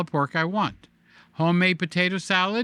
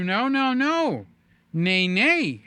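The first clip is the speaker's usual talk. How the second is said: higher, a mock-whiny comic refusal; John Pinette impression; 4 semitones higher, slower than usual. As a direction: ham up a stand-up comic's whining. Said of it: "as our friend John Pinette would say".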